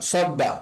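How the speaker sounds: সব্বা with the ব held and said twice; doubled consonant. Shown as a demonstration. Teacher shows students the doubled ব in সব্বা. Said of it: "দুইবার আওয়াজ করে মিলিয়ে পড়তে হবে".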